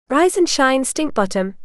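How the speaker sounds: lightly sing-song teasing wake-up call. A narrator's reading. Sister calling from beyond the bedroom door, sing-song. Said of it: "came Alyssa's sing-song voice".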